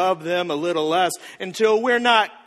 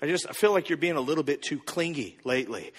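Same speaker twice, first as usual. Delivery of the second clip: soft, lower-pitched gentle complaint; tentative partner; 4 semitones lower, 6 dB quieter, faster than usual. Acted. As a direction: broach it quietly and carefully. Voices partner raising a delicate complaint.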